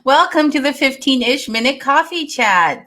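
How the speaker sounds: bright radio host intro; announcer voice. Acted. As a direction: open like a show announcer. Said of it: "sounding like an announcer".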